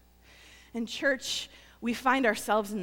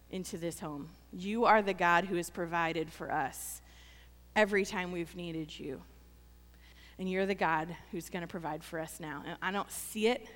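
a hushed personal prayer of trust; 4 semitones lower than usual. Shown as a demonstration. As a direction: pray it gently and low. Modelled prayer to God.

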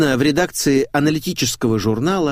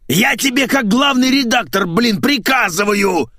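much higher, loud squealing order; shrieking; 12 semitones higher, 4 dB louder than usual. Acted. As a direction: squeal the command in a fit of rage. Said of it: "завизжал Николай Сергеевич".

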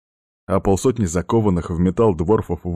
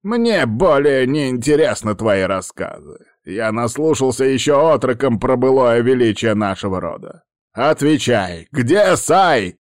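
put-on firm, raised old shaman; 5 semitones higher, 4 dB louder than usual. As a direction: stand firm and command an answer. Shaman demands answers.

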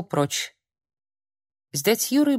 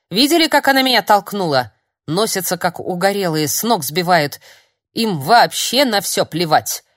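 возмущённая жалоба; 5 dB louder than usual. Acted. Старик возмущённо жалуется.

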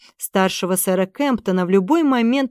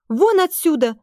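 higher, stamping furious cry; furious shout; 8 semitones higher than usual. A narrator's reading. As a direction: drive the soldiers out in a rage. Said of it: "затопала ногами Эстер".

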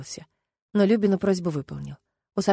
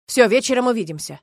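cutting her off; 3 semitones higher, 6 dB louder than usual. A narrator's reading. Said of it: "оборвал её Стас".

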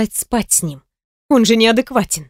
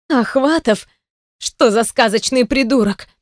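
indignant; 3 semitones higher than usual. Acted. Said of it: "Продолжала возмущаться Каролина".

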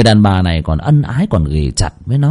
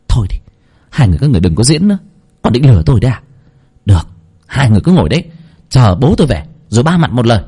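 cold fury; much faster than usual. Acted. Nở rejecting their act.

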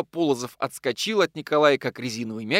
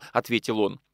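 usual speaking voice

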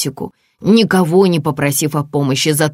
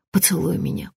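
softer, breathy plea at his lips; whispering; 2 semitones higher, 6 dB quieter than usual. Acted. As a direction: whisper it close to his mouth. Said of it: "прошептала Наталья у самых его губ". (шёпотом у самых губ)

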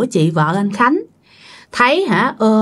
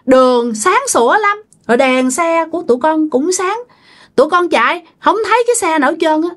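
dead wife's voice; 4 semitones higher than usual. Retold or imitated. Dead wife tells relatives about the crash, higher pleading voice. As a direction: imitate the dead wife speaking through the medium. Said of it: "giọng là giọng của chị vợ luôn".

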